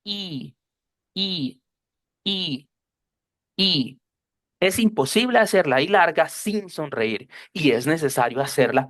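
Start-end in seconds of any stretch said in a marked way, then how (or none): 0.0-4.0 "y" held long with a wide smile, cheeks up; long smiling I. Shown as a demonstration. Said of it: "las mejillas van para arriba". ("y" larga y sonriente, con las mejillas arriba)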